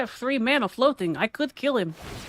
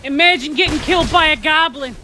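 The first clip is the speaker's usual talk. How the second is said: gloating taunt; 3 semitones higher, 5 dB louder than usual. Acted. Gloating at the opponent killed by a goblin, loud jeer. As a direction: rub it in, loud and gleeful.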